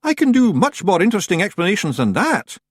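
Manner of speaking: ventured nervously, hoping to dodge. Acted. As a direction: Rob nervously dodging the truth. Rob voice.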